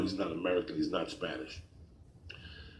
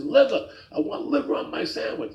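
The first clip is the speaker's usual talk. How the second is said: high-pitched mock indignation, starting loud; upset old man; 3 dB louder than usual. Old man repeating his order to the second worker, upset. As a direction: act out an old customer insisting angrily. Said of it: "Now he's getting upset".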